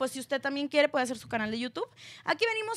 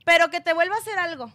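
retold threat; 3 semitones higher, 6 dB louder, faster than usual. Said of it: "escuchen bien esto".

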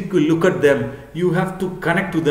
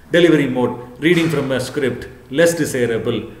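reading from slides. Shown as a demonstration. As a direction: read the bullet points straight off the slide. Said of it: "If you read like this".

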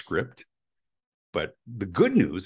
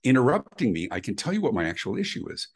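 higher-pitched, mock exasperated customer; retold frustration; 5 semitones higher than usual. Caller to cable company agent who keeps interrupting, retold frustration. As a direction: re-enact a caller getting frustrated at being interrupted. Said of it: "I'm getting really, really frustrated".

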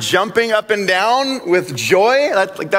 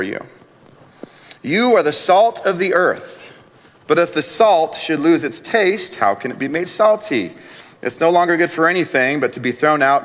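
measured, solemn Bible reading; Scripture reading; 3 semitones lower than usual. Acted. Reads Scripture aloud.

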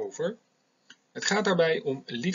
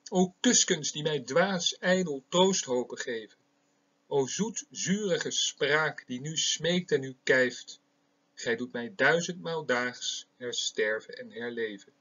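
put-on slow, solemn reading of an old sonnet; measured poetic reading; poem recitation. Shown as a demonstration. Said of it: "Eén zo'n gedicht wil ik hier voorlezen".

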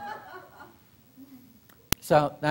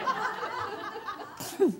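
high, airy cat-like hacking; comic mock retching noise; imitated hairball retch; 8 dB quieter than usual. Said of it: "like a cat with a hairball".

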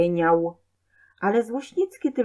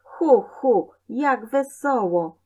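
high, gleeful little hooting; tiny creature revelling in mischief; laughing imp; 5 semitones higher, 4 dB louder, slower than usual. A narrator's reading. Tiny imp delights in boy's tantrum, high and gleeful. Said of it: "ten śmiech od komarowego brzęku".

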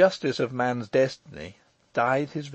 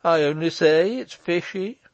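Michael; 6 semitones higher, 6 dB louder than usual. Acted.

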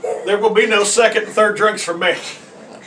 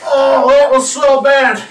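disgusted; 7 semitones higher, 9 dB louder, slower than usual. Real, not acted. Reacting to a foul drink.

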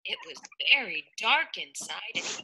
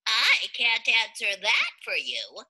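starfish voice; 3 semitones higher than usual. Acted. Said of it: "said the starfish".

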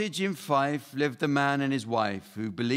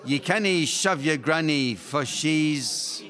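Scottish rhyme; 4 semitones higher, slower than usual. Pretend. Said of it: "my Scottish accent is too thick".

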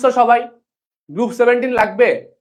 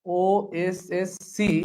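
slow demo; 2 semitones lower, 8 dB quieter, much slower than usual. Shown as a demonstration. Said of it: "slow mnemonic demo".

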